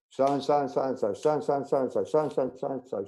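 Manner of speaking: run-on rattled list; sing-song patter, evenly repeated; reeling off names. Retold or imitated. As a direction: rattle it off like a roll-call. Imitating breeder reeling off names.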